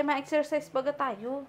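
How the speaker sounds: slow, drawn-out invitation; slow coaxing. Real, not acted. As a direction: coax her gently and slowly.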